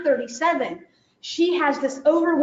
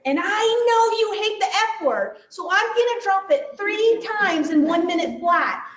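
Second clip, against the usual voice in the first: higher, mock kid talking it through; higher-pitched mock child planning mischief; child's scheming voice; 5 semitones higher than usual. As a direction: play the kid who wants the chaos. Child voice explaining plan.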